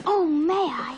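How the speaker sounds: breathless plea. Acted. Child begs excitedly.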